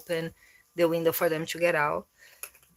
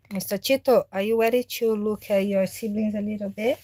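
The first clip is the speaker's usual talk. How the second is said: higher, gentle coaxing question; pet talk; 4 semitones higher, faster than usual. Real, not acted. Owner coaxing her cat to meet the kittens, gentle pet talk. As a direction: ease him toward the babies.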